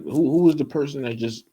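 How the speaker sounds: put-on a confused old man demanding answers; mock bewildered questioning; imitating flustered Isaac. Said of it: "Pretty much, he was like".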